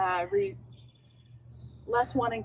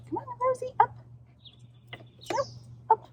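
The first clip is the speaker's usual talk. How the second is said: much higher call to Rosie; high coaxing call; faster than usual. Real, not acted. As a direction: coax her up brightly. Calling dog onto bench.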